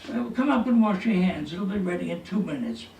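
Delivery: mock holler from upstairs; retold yell downstairs. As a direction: imitate calling down the stairs. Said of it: "she yells down".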